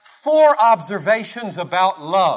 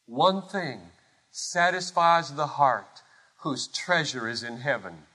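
lower, softer echo, sinking to the end; hushed repetition; 5 semitones lower, 7 dB quieter than usual. Real, not acted. Preacher repeating it for the congregation, hushed and solemn. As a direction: let "One thing satisfies" settle quietly.

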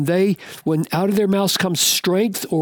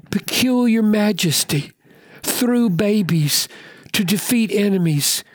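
Jesus rebuking priests; 4 semitones higher than usual. Acted. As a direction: press the scribes with pointed questions.

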